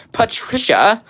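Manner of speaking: Patricia with a full "pat" first syllable, rising at the end; playful name mispronunciation. Shown as a demonstration. Streamer confessing an urge, Patricia playfully overpronounced. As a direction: exaggerate Patricia as "PAT-trisha", drawn out and questioning. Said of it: "I have the urge to say it as".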